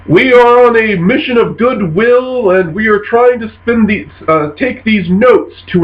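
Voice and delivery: bluffing envoy. Acted. Londo explains his goodwill mission to pirates, bluffing. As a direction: pitch it up like an official proclamation.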